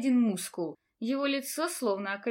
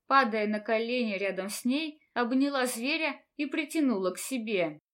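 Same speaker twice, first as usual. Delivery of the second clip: ordinary delivery, nothing marked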